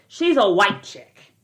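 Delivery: slow, emphatic WHITE; "white" stretched out for contrast; stress on WHITE. Real, not acted. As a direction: lean hard on "white", drawing it out. Contrast with a singer's kind.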